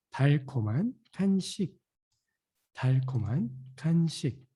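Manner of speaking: fast natural speed repetition; 빠르게 자연스럽게; quick repeat. Shown as a demonstration. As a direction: say it at native speed.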